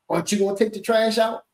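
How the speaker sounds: pointed, accusing ask, stress on trash; negative tone. Shown as a demonstration. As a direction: put a bite on "trash". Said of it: "you could say it in a negative way".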